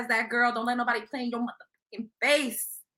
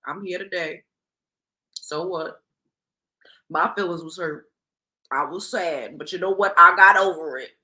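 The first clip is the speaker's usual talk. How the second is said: 1 lower calm mock apology; 5 semitones lower than usual. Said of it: "I'm be like".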